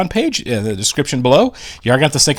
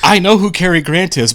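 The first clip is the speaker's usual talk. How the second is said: retold defensive protest, pitched up; mock indignant; 6 semitones higher than usual. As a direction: protest your knowledge in a higher voice. Retells defensive reply to commenters.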